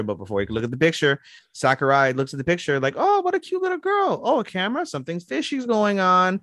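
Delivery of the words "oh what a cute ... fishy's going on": high, sugary voice turning suspicious; sweet then suspicious. Retold or imitated. Sakurai finding the photo, sweetly high then suspicious. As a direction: coo it sweetly, then grow wary.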